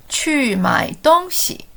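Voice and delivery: slow, evenly spaced syllables; slow model for repeating. Shown as a demonstration. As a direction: say it slowly so learners can join in.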